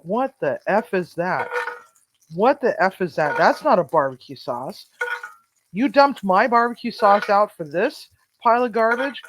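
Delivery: rising to a furious yell at the cook; angry yelling. Retold or imitated. Chef chewing out the new cook, angry yell.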